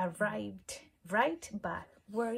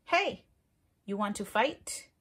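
grouchy ladybug voice; 5 dB louder than usual. Acted. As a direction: pick a fight in a squeaky bug voice. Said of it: "the grouchy ladybug said".

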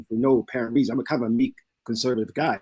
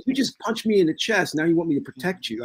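incredulous retort; 5 semitones higher than usual. Retold or imitated. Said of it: "And I was like".

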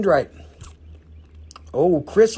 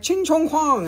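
mock vendor voice; 9 semitones higher, slower than usual. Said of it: "they're like".

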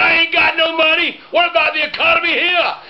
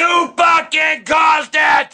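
heated family shouting; much slower than usual. Real, not acted. Heated family argument over door.

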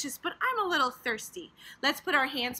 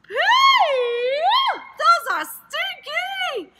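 mock disgust; 11 semitones higher, 6 dB louder than usual. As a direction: play it grossed out. Pretend smelling stinky toes.

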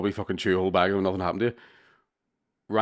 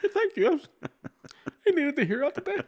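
mock tired thanks. Answering his friend's jab with a high, weary thank-you. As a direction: play it as a worn-out, overly grateful whine.

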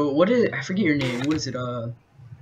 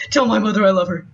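wounded soldier gasping. Pretend. Dying soldier roleplay.

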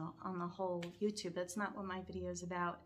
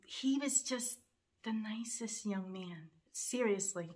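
slow, voice giving out into a whisper; choked up and slow; holding back tears; slower than usual. Real, not acted. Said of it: "I don't wanna cry on screen".

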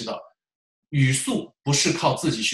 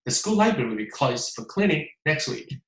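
calm, even, unhurried; settled natural pace; own steady pace. Shown as a demonstration. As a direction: say it at your own rhythm. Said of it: "你按照自己的速度来".

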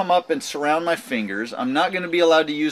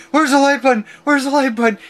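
high, loud panicked imitation; frantic repeated question, pitched way up; mock panic; 11 semitones higher, 6 dB louder than usual. Shelly hunting for the light switch, mock panic. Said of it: "Shelly's over in the corner panicking".

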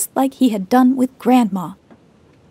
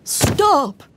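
hollered; 5 semitones higher than usual. Acted. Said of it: "he hollered".

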